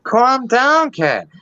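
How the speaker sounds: brash Boston local, fading out; Boston accent. Shown as a demonstration. Finishing his Boston voice for the guests. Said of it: "Oh, Boston now".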